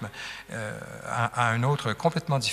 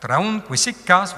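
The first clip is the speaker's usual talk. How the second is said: "traun quisic cas" slow and higher, beat on the long syllables; scanned iambs; 5 semitones higher, 3 dB louder, slower than usual. Shown as a demonstration. Teacher repeats the two iambs for students, slow scansion. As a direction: drag out each foot of "traun quisic cas". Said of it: "vous avez deux iambes".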